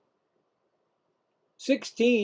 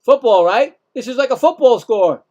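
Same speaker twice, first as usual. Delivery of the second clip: louder and higher, mocking the score; incredulous outburst; 5 semitones higher, 8 dB louder than usual. Real, not acted. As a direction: laugh off a football score in baseball.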